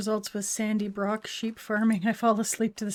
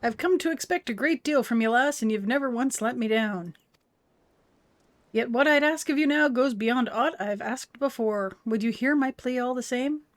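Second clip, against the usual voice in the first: hearty gruff Scot asking a favor; a gruff clan elder; gruff old Scottish boss; 2 semitones higher than usual. Acted. Voicing game NPC dialogue.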